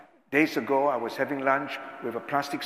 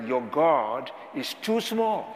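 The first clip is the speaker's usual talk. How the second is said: slow title; slower than usual. Shown as a demonstration. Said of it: "he wrote a book with the title".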